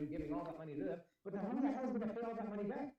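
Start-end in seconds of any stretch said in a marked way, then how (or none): 1.2-2.9 exasperated. Real, not acted. Angry rant about paying debt.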